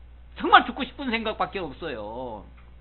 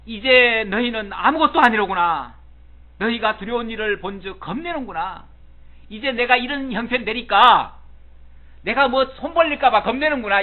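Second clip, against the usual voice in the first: teguran Ayub; 3 semitones higher, 6 dB louder than usual. Acted. Preacher voices Job rebuking his friends.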